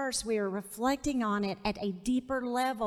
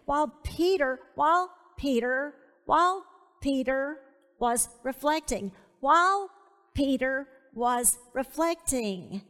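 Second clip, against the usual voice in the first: WHILE set apart and punched; emphatic, halting repeats that lean on WHILE; stress on WHILE; 3 dB louder than usual. Real, not acted. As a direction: hit WHILE hard each time it repeats. Hammers the word while by repetition.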